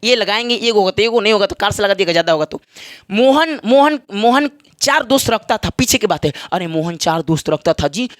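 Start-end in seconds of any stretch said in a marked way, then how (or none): 3.1-4.5 loud, higher call of a name; teacher playfully calling out a name. Acted. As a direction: call Mohan across the room.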